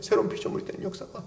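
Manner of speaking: breathy whisper of the phrase; whispered repeat. Shown as a demonstration. Preacher whispering the key phrase to congregation, hushed. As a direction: whisper it back as an echo. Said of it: "이 새로운 피조물이 되는 역사가".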